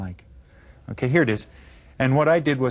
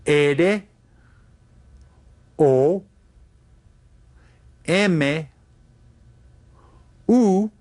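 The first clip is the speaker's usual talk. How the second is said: dictation; 3 semitones higher, much slower than usual. Shown as a demonstration. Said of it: "I'll tell them to you in Spanish".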